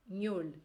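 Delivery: ñol with a closed O. Shown as a demonstration. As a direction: isolate the syllable ñol with a closed O. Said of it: "E o O fechado". (ñol, com O fechado)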